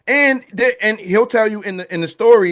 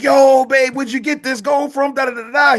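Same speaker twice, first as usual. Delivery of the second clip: lightly acted wife, pitched high; high-pitched mock nagging; prying wife; 8 semitones higher than usual. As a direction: pester him with high, eager questions. Wife questioning husband about gold.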